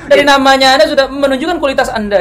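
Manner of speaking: mocking laugh. Mocking fake account, laughing.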